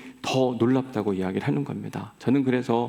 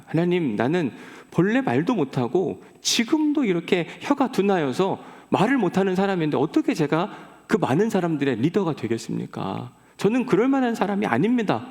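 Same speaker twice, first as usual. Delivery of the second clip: high, pleading excuses; pleading Moses; 5 semitones higher than usual. Acted. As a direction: beg off the task, voice pitched up. Moses pleads he cannot speak.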